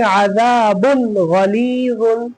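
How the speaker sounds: slow Quran-teaching recitation of "अजाबुन गलीजुन"; reading demonstration. Shown as a demonstration. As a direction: draw out the long vowels in "अजाबुन गलीजुन". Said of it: "इसको कैसे पढ़ेंगे".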